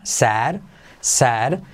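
said, open E vowel. Shown as a demonstration. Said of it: "es como una E más abierta".

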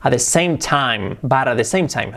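"same" with a clear final M; slow model of "same time"; corrected M. Shown as a demonstration. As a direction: hold the M in "same".

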